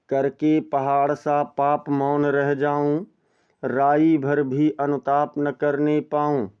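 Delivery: slow, drawn-out verse reading; poem recitation. Shown as a demonstration. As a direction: savour each word of the verse. (धीमा काव्य पाठ)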